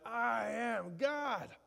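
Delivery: high, slow drawn-out proclamation; slow mock-triumphant cry; mock scream. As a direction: belt it out like a grand declaration. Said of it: "screaming out".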